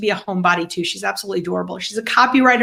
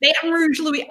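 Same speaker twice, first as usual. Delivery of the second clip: higher-pitched put-on Southern accent; 5 semitones higher than usual. Host testing her accent on the guest's hometown, Southern accent. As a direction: try out a Louisiana accent. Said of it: "if that's a good Southern accent".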